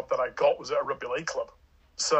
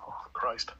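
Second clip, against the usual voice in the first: whispered aside; 3 semitones lower, 6 dB quieter than usual. Real, not acted. Aside while recalling huge sums.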